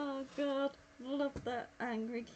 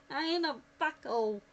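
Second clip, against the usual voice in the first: London accent; 4 semitones higher, 7 dB louder, faster than usual. Real, not acted. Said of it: "My accent came out then".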